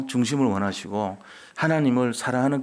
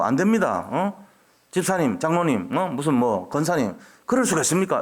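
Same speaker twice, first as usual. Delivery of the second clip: mock scolding; 3 semitones higher than usual. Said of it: "내가 거기다 대놓고".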